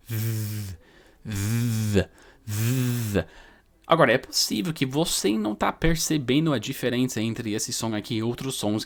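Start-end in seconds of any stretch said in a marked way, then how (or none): 0.1-3.3 buzzing th; voiced th. Shown as a demonstration. Teacher showing the voiced th. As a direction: add voice to the th. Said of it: "Aí agora".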